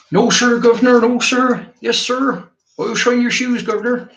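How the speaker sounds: high, hammed-up Cockney street urchin. Victorian England urchin pleading with a gentleman, high hammed-up Cockney. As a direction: play a Victorian Cockney boot boy begging. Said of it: "obviously I'll be Cockney as well".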